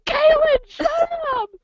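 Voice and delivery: mock embarrassed mom; lightly voiced scolding. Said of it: "I was like".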